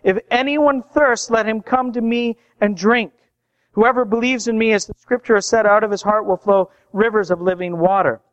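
lifted, proclaiming invitation; mild crying out. Retold or imitated. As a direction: call it out as a preacher quoting. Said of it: "Jesus stood up and cried out".

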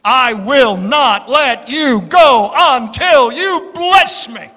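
cling on and refuse to let go; desperate Jacob. Retold or imitated. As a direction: Jacob wrestling with God, desperate plea. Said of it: "the prayer of Jacob... said".

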